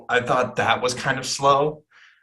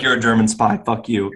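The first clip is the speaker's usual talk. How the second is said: light hint of a Scottish accent; a rough Scottish accent, barely there; 3 dB louder than usual. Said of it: "That your best Scottish accent".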